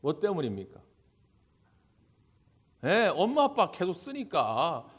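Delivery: ordinary talk, nothing marked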